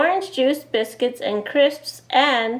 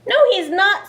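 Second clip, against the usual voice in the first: mild scream; 9 semitones higher, 4 dB louder than usual. Acted. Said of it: "screamed Betty".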